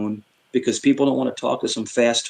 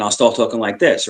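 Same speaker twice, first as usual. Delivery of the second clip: quick, pressed argumentative delivery; demonstrated fast talking; fast arguing talk; 2 semitones lower than usual. Shown as a demonstration. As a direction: rattle it out as in an argument. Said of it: "I'll start talking really fast".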